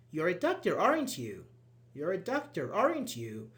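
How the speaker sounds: "aren't you" lifted to seek an answer; questioning tag intonation. Shown as a demonstration. Teacher demonstrates a tag that expects a response, questioning intonation. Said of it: "we rise our intonation".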